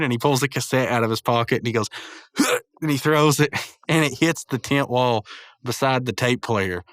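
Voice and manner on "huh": short effort noise, acted; imitated throwing grunt. Muscle Man throws a cassette, imitated effort grunt. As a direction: grunt as if flinging something.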